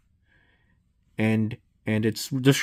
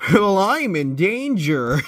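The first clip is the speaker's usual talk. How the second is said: scared horror game streamer; 7 semitones higher than usual. Acted. Back rooms game, monster nearby.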